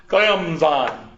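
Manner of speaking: "Clemson" said crisply like a TV announcer; sophisticated Clemson. Shown as a demonstration. Teacher modeling the announcer's "Clemson" for a student. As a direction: say "Clemson" the polished ESPN way. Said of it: "those E S P N announcers".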